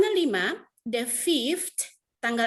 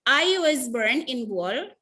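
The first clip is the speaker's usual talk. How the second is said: slow model reading; 4 dB louder, much slower than usual. Shown as a demonstration. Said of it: "Ibu jelaskan cara bacanya".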